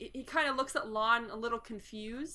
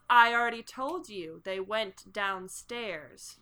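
lightly menacing butler, slowing to the end; sickening smile; 5 dB louder, slower than usual. Acted. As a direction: hit the start loud, then slow right down. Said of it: "there's a sickening smile spreading across his face".

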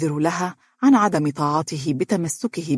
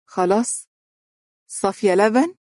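lilting, higher-pitched coaxing question; playful; 5 semitones higher than usual. A narrator's reading. Husband to wife, making up after a tiff, playful. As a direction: coax her lightly to make up. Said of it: "قائلا بمرح".

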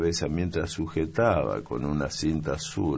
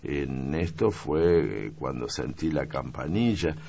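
put-on higher, eager young maid's story; young maid explaining; 5 semitones higher than usual. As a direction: rattle off the whole explanation keenly. (criada explicando con entusiasmo, voz aguda)

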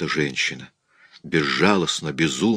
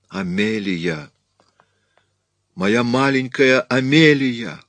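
slow, voiced awe rising higher; drawn-out call to a lost child; hoarse whisper; 6 semitones higher, 3 dB louder, slower than usual. A narrator's reading. Mother sees her child materialise, hushed awe turning to a cry. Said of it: "хрипло прошептала мадам Икс".

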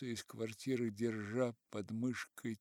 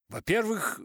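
angry retort; 10 semitones higher, 9 dB louder than usual. Acted. Narrator retorts angrily.

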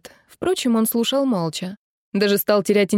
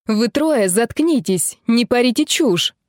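usual speaking voice

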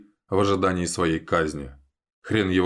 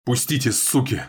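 yelling; 5 semitones higher than usual. A narrator's reading. Dima yelling at the guards holding him. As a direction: yell at the guards. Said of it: "ору на них".

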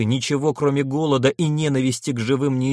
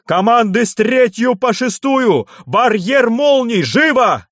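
much higher, louder barked command; grim growl; 10 semitones higher, 5 dB louder than usual. Acted. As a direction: roar the order grimly. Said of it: "мрачно прорычал".

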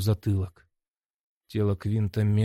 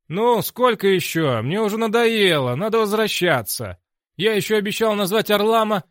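loud, impatient and high; impatient demand; 10 semitones higher, 7 dB louder than usual. A narrator's reading. Narrator's voice demands to return, loud and impatient. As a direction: demand to go back, fed up.

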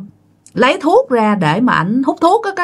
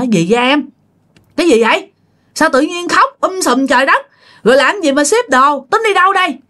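alarmed questioning; 5 semitones higher than usual. Retold or imitated. Father questioning crying mother.

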